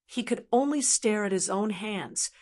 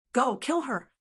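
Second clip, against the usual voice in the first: coaxing demon; 4 semitones higher than usual. Acted. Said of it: "The demon patiently guided the youth".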